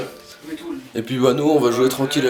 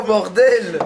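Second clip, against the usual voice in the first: stunned; 7 semitones higher, much slower than usual. Real, not acted. Sees the plate.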